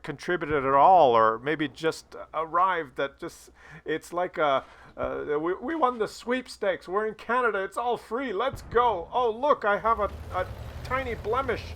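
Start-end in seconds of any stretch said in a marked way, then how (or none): 5.4-11.6 high, soft mocking whine of spoiled arrivals; lightly voiced mock brat; mocking entitled newcomers. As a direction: sneer at them in a thin high voice.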